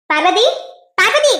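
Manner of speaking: name called out with a rising end; calling out. Acted. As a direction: call her name to get her attention. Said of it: "பார்வதி பார்வதின்னு கத்திட்டு இருக்க".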